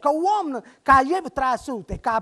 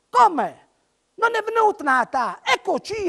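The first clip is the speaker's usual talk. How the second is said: shouted in unison; 6 semitones higher, 4 dB louder than usual. Acted. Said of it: "tutta una voce gridò".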